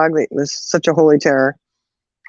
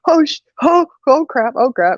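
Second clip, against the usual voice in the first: higher, breathless-style mock panic; acted-out dismay, pitched up; retold alarm; 8 semitones higher than usual. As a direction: replay an 'uh-oh' moment. Retells own alarmed reaction.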